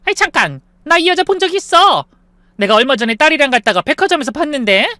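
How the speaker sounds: high, loud excited shout; loud exclamation. Acted. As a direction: call out to stop everyone. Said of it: "큰 소리로 외쳤대요".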